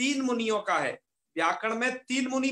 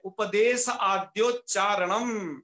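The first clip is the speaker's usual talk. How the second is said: उपदेश आद्योच्चारणम recited slowly, each syllable clear; slow recitation; slower than usual. Shown as a demonstration. Teacher quoting the text of the sutra to students, slowly. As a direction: quote the text slowly for the class. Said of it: "एक बात लिखी है".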